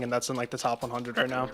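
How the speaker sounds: voice crack. Real, not acted. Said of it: "Ooh, voice crack".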